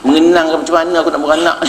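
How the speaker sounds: giggling while voicing the fretful husband; half-laughing mock worry; laughing through the quote. Preacher laughing as husband frets about giving birth.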